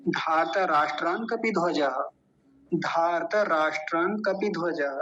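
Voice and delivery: धार्त राष्ट्रान कपिध्वजः in one unbroken flow; joined, no pause. Shown as a demonstration. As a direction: run it together without stopping. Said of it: "एक साथ मिला के बोलेंगे तो कहीं नहीं रुकना". (बिना रुके एक साथ)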